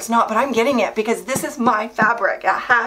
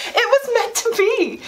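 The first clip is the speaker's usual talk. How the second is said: higher, thrilled declaration; 13 semitones higher than usual. Real, not acted. Telling viewers, thrilled and pitched higher. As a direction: announce it like fate itself. Exulting over the bargain.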